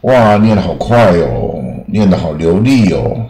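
slowed, drawn-out imitation of an impressed listener; mock admiration. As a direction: imitate people marvelling at fluent reading. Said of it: "普遍的想法就是说".

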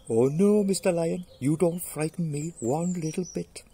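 cocky little mouse. Acted. Mouse taunting the sleeping lion, cocky. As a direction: pipe up as a brave tiny mouse.

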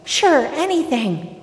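high, loud, stretched reply; calling back. Acted. Healed man answers as he runs, calling back. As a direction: sing out the answer over a distance. Runner calls back to Jesus.

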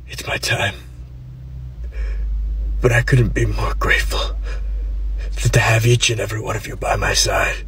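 breathy deathbed whisper, fading; dying whisper. Acted. Dying father whispering goodbye to his family. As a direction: whisper it like your last words.

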